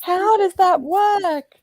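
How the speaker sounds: slow, high baffled question. Real, not acted. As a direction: stretch it out in disbelief.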